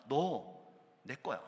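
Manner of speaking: mild loud command to rise; God shouting. Acted. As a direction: lift them up with a shout. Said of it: "이렇게 소리치시는 것 같아요".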